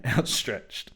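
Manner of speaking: plain reading voice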